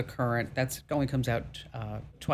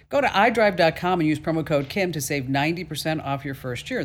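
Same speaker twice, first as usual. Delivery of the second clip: upbeat sponsor pitch; ad read. Acted. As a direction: rattle off the offer. Promo code read first.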